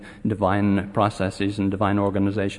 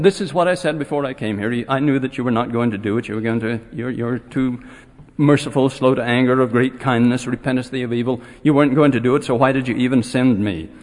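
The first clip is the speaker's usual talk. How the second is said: upset complaint. Retold or imitated. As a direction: protest to the Lord like a sulking prophet. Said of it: "He was very angry".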